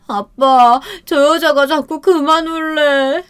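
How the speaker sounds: 높고 느리게 칭얼대는 취한 남편; 아빠에게 이르는 아이처럼 느리게; 아이처럼 칭얼대기. Retold or imitated. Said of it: "취해서 아이처럼 울면서". (취한 남편이 아빠에게 아이처럼 높게 일러바침)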